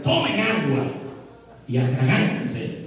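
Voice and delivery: spiteful Moses. Acted. Moses, fed up with the people, throws out a spiteful retort. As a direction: spit it out at them. Moses angrily gives water.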